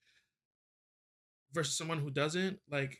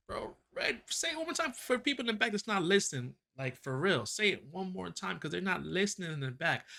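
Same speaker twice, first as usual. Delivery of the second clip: excited urging; 4 semitones higher than usual. Pretend. Urging the narrator to repeat.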